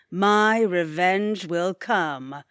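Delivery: a villain promising payback, unhurried; scheming threat. Acted. Boss plots revenge.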